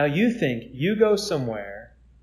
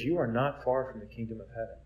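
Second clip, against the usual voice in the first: gentle reassurance; 3 semitones lower, 7 dB quieter than usual. Retold or imitated. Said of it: "That's very gentle".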